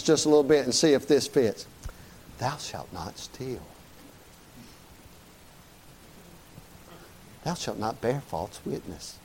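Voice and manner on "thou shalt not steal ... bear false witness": low, soft, slow mock prophet voice; hammed-up pious intoning; mock biblical prophet. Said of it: "you think that's the tone of voice".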